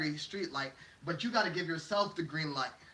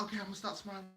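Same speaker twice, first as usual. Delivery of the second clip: much softer, small reply; meek giving in; 8 dB quieter, much faster than usual. Acted. Person yielding to critics' demands, acted meekness. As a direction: shrink back and comply under your breath.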